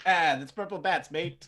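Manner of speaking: bad half-British, half-pirate slang; horrible British-pirate accent. Shown as a demonstration. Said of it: "my horrible half British, half pirate".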